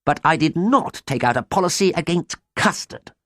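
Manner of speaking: very high, hammed-up wailing; broken-hearted lament. A narrator's reading. Ruined farmer bemoans his custard-flooded farm, high sobbing wail. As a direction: pile up the woes in a high wail. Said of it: "he sobbed broken-heartedly".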